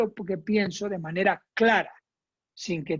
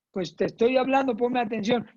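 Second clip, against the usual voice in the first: annoyed demand; 3 semitones higher than usual. Shown as a demonstration. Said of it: "Eso no".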